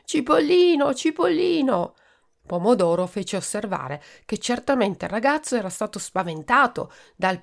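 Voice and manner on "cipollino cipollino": delirious calling. Acted. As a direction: call out for a friend in a fever. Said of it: "Nel delirio chiamava continuamente". (il malato chiama Cipollino nel delirio, grido acuto)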